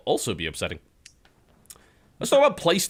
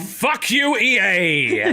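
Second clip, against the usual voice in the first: retold angry outburst; 7 semitones higher, much slower than usual. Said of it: "And I'm like".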